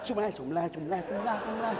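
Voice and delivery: semlah slurred fast and low, syllables swallowed; rushed mumbled dhikr. Retold or imitated. Imitating a fast imam rushing dhikr, slurred. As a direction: gabble semlah like a mouth full of hot fritter. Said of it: "Macam dia makan pisang goreng panas".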